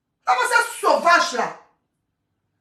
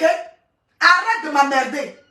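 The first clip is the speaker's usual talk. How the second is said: slow exasperation; 2 semitones lower, much slower than usual. Real, not acted. Telling a commenter to stop.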